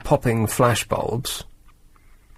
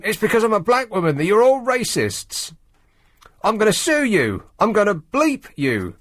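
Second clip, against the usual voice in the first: mock yell; 8 semitones higher than usual. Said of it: "she yelled at them".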